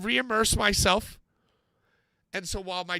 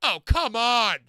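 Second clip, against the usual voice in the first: exasperated outburst; 2 semitones higher, 4 dB louder, slower than usual. Retold or imitated. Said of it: "Out loud".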